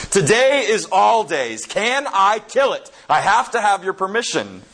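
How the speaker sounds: solemn angel. Retold or imitated. Angel answering spirit, solemn.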